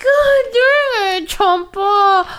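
slow, high, hammed-up curse; mock angry yell. Yelling at the dog who tripped her, mock anger. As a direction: curse the dog in half-laughing fury. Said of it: "I was like".

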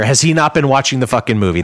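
ordinary talk, nothing marked

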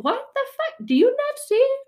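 hammed-up furious plea; exasperated outburst. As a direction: yell it at heaven in frustration. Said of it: "We're like".

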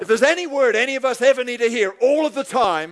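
punchy sermon delivery that settles as it goes; preaching. Real, not acted. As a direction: proclaim it to a congregation. Preaches to the congregation.

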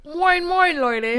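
hearty, hammed-up Hamburg greeting; Hamburg accent. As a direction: belt out moin moin like a harbour local. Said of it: "einen Hamburger Dialekt".

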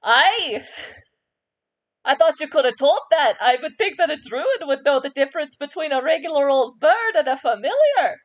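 indignant and huffy, talking down; proud bird voice. Acted. Terry the bird scolds the druid, puffed-up and huffy. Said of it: "he puffs up a little bit and he goes".

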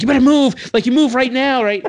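loud, high warning shout; angry yell. Retold or imitated. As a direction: bark the order to get out of the way. Yelling at man on the hood.

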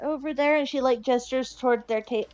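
hesitant, stumbling shy request. Acted. Shy girl ordering food for her party, hesitant. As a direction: falter and restart like a shy child ordering. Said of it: "like, really shyly".

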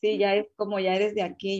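ordinary delivery

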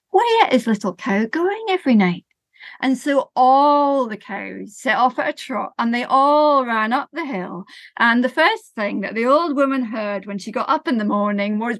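slow, rhythmic storytelling voice; lilting children's storyteller; story narration. A narrator's reading. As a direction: tell it gently to a listening group. Tells a sensory story to audience.

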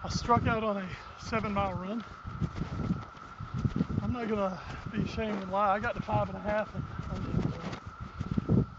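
breathing hard after a long run. Real, not acted. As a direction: talk while winded from running. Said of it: "little out of breath".

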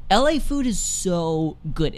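slow, crisp mid-Atlantic enunciation; every letter pronounced, old-film style; mid-Atlantic accent. Pretend. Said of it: "I'm just going to enunciate all of my letters".

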